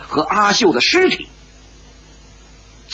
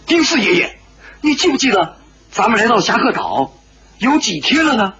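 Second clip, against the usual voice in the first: higher, urgent pleading question; anxious, near tears; 6 semitones higher than usual. A narrator's reading. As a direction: ask anxiously in a raised voice. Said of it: "石破天是很着急， 几乎要流出眼泪来". (焦急地高声询问)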